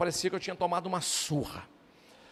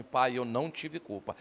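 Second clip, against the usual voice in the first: tearful plea; 6 semitones lower, 4 dB quieter, slower than usual. Retold or imitated. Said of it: "dormiu chorando e dizendo".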